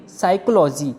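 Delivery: साइकोलॉजी starting on S; silent P. Shown as a demonstration. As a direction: say साइकोलॉजी with no P before the S. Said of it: "पी की कोई sound नहीं आएगी".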